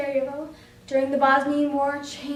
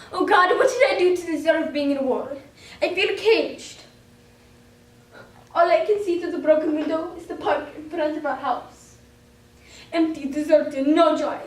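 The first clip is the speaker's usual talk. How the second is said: a touch of despair, dramatically read; stage monologue of a trapped child; anguished diary monologue; 4 dB louder than usual. Acted. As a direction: plead in dismay at the war.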